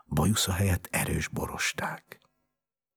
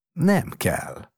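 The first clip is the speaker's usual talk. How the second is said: put-on high-pitched childish whine; whining; 12 semitones higher, 4 dB louder than usual. A narrator's reading. Sick boy refusing the balloons, whining.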